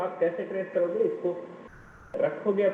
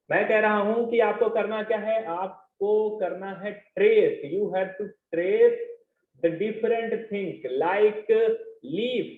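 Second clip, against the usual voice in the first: a little louder to be heard; raised teaching voice, only mildly louder; speaking up; 3 semitones higher, 3 dB louder than usual. Real, not acted. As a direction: speak up for a class that can't hear you. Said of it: "कोशिश करता हूँ कि तेज बोलूं".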